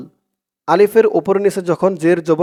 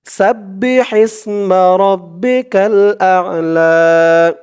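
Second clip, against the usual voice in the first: recitation. Shown as a demonstration. Teacher reciting the verse for viewers to repeat. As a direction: chant each word carefully as a model. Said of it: "তো বলুন আমার সাথে".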